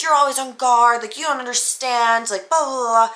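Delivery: mock his yelling without really shouting; mild mock yell. He's basically screaming at me about my guard, mild mock yell. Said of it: "basically screaming at me".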